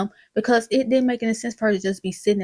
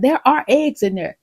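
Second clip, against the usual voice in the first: stubborn insistence; 4 semitones higher, 5 dB louder than usual. Retold or imitated. Retold husband insists on eggs.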